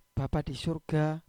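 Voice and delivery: low-key, slow murmured address to God; soft prayer. Shown as a demonstration. Believer praying to the Father in heaven, soft voice. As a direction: pray it softly and unhurried. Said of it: "cukup dengan suara lirih".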